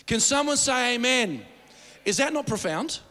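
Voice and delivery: preacher's call. Real, not acted. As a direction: rouse the crowd. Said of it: "preacher calls congregation".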